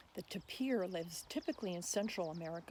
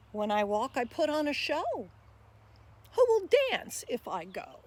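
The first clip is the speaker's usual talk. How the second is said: louder, bouncy rhyming voice of the tapir; tapir reciting; 2 semitones higher, 7 dB louder than usual. Acted. Tapir pleading with listeners to be saved, lively recital. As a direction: speak as the friendly tapir asking for help. Lemur speaks its poem.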